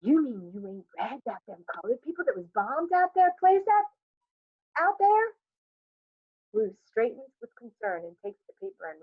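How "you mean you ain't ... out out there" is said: gossiping neighbor rising to a high alarmed pitch; spirit of catastrophe. A narrator's reading. Johnson bringing the bombing news, mock alarm. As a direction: relish the bad news. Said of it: "blinking with the spirit of catastrophe".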